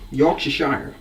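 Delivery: Yorkshire said as a mock American Yorkshire-shire; terrible American accent. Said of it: "That was my American accent, terrible".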